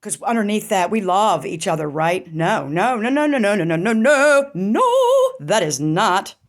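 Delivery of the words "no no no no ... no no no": emphatic no. Real, not acted. Rejecting her own hopeful idea.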